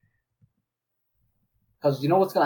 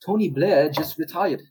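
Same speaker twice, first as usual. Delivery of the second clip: British commentator. Pretend. Improvised British commentator act.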